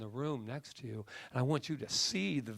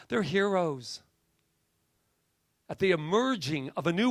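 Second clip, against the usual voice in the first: emphatic preaching, key words punched higher; preacher; 4 semitones higher, 5 dB louder than usual. Real, not acted. Preacher honoring lost lives as heroes, fervent preaching. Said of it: "It's the preacher in me".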